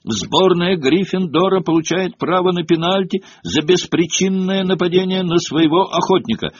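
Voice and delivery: high, insistent official ruling; ringing, formal verdict; referee's announcement. A narrator's reading. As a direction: proclaim the penalties to the whole stadium. Referee announces penalties to both teams.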